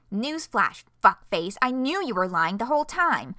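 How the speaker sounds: loud, angry shout; angry comeback. Acted. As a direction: fire it back in anger. Angry retort read aloud.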